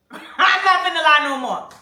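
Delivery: laughing loudly through the words. Real, not acted. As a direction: crack up while admitting it. Laughing confession to audience.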